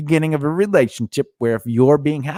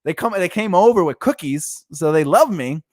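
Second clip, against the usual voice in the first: naive mock voice; 4 semitones higher than usual. Imitating naive partner.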